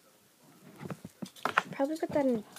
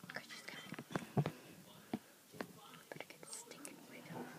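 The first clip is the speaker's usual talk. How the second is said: whispering; 12 dB quieter than usual. Real, not acted. Hiding from someone nearby.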